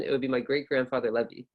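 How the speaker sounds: "Levy" falling at the end; downward intonation. Shown as a demonstration. Teacher reading the example response, falling intonation. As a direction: close down on "great-grandfather Levy".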